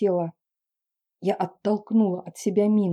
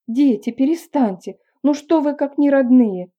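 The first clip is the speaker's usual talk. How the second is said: higher, louder wailing plea; a mother begging the kids to stop; lamenting mother; 5 semitones higher, 6 dB louder than usual. A narrator's reading. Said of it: "запричитала мама". (мать причитает, выше и громче)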